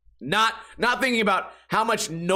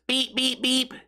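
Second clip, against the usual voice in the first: higher mock honk sounds; car horn beeps; 7 semitones higher, slower than usual. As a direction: imitate a car honking. Imitating car horn honks.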